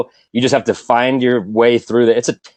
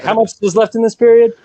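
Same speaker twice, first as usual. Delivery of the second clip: bored sub teacher; 10 semitones higher than usual. Retold or imitated. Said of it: "I'm being like".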